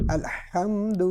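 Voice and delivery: الحمد read plainly, no stretch or jolt; simple short vowels. Shown as a demonstration. Teacher showing plain smooth vowels. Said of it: "بالکل سادہ سا پڑھا حرکات کو".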